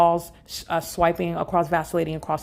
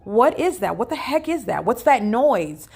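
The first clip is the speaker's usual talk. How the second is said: higher, jumpy voice imitating alarmed strangers; mock freaked-out panic; 6 semitones higher than usual. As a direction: play scared neighbours asking what that was. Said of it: "Okay, they're freaking out".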